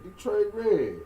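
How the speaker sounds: big booming promo read, slow; radio announcer voice. Pretend. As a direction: hype it like a radio DJ. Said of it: "since you got the radio voice".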